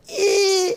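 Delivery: high squeezed grunt; strained grunt. Retold or imitated. Snake charmer grunting under the python, high squeezed grunt. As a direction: squeak as if crushed. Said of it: "he'd be like".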